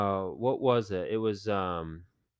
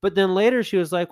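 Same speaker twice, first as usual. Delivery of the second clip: ordinary talk, nothing marked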